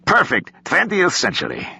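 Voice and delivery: put-on high, delighted Russian-accented praise. A narrator's reading. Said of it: "he had never quite lost his Russian accent".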